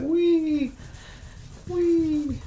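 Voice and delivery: high, slow squeal of wee; squeaky wee. Retold or imitated. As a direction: sing out a tiny high wee like a child. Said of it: "It's like".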